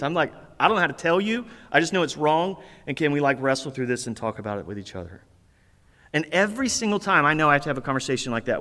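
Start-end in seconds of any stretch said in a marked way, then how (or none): 0.6-5.2 softly imitating himself unsure, trailing lower; clueless, tentative. Husband admitting to his wife he's clueless, mildly tentative. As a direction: fumble it gently, fading away as you go. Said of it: "this is how I say it 'cause I'm clueless".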